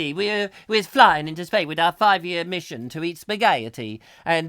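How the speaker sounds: lightly hammed-up Italian accent; a touch of put-on Italian lilt; mock Italian. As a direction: play a comic Italian space captain. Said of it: "it would be the Italian Enter".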